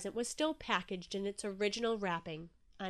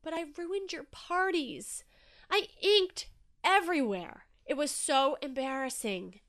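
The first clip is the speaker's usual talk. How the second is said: higher-pitched, worried protest; apprehensive; 6 semitones higher, 4 dB louder than usual. A narrator's reading. Inky confessing he ruined the parties, apprehensive. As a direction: fret it out haltingly. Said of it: "said Inky apprehensively".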